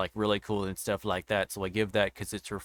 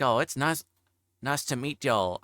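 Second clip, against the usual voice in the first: higher country twang, hard country accent; 4 semitones higher than usual. Shown as a demonstration. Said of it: "like, a hard country accent".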